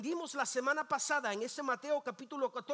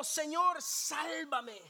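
cry for help; 4 semitones higher, much slower than usual. Acted. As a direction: call out for rescue. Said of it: "Entonces gritó".

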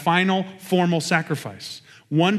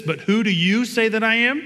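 raised pitch, pointed question rising at the end; personal question; 6 semitones higher than usual. Acted. Jesus asking his disciples very personally, pointed rising question. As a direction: put it to them directly, higher and rising to the end. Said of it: "very personally".

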